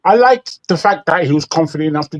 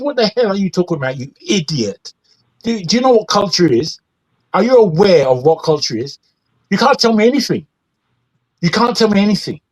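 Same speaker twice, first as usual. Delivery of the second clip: imagined comeback, pitched up in exasperation; indignant retort; 4 semitones higher, faster than usual. Retold or imitated. British man imagining his retort to being called tethers, indignant. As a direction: fire back a mock-outraged retort.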